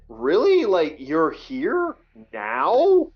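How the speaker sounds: disbelieving "Really?" rising high, then a slow drawn-out "now"; incredulous. Retold or imitated. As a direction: stretch it out in sheer disbelief. Incredulous inner thought at DMV.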